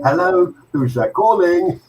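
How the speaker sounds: Linda. Retold or imitated. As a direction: imitate a woman calling out down the phone. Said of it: "that was Linda doing the".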